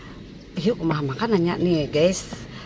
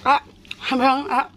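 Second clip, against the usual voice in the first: excited exclamation; 8 semitones higher, 3 dB louder, faster than usual. Real, not acted. Exclaiming while eating.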